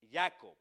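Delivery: Jacob said loud and firm, a repeat-after-me model; repeating the Hebrew name. Shown as a demonstration. Preacher calling Jacob again for the congregation. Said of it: "Diga conmigo".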